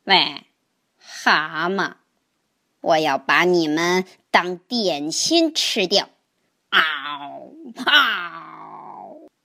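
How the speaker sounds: lightly voiced menacing turtle, low growl at the end; a hungry turtle threatening a snack; fierce snapping turtle. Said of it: "鳄龟恶狠狠地说". (饥饿的鳄龟低声恶狠狠地威胁)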